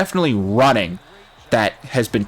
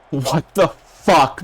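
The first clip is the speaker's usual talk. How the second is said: exasperated, drawn out; 4 semitones higher, much slower than usual. Real, not acted. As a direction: drag out "What the fuck" in disbelief. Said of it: "I almost said".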